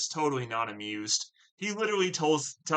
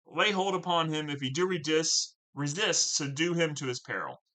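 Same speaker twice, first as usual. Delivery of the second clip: a slightly raised, measured reading of an angry senator; dramatic Shakespeare reading; 3 semitones higher than usual. Acted. Teacher reading Brabantio's accusation to the class, lightly dramatic. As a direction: read Brabantio's accusation with mild indignation.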